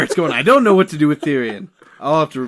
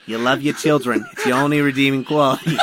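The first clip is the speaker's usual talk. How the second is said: bad Tyrion voice. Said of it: "really bad Tyrion voice".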